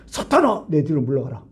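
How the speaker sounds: retold sharp reprimand; stern rebuke. Jesus turning on Peter, stern rebuke. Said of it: "막 강력하게 확실하게 꾸져버리잖아요".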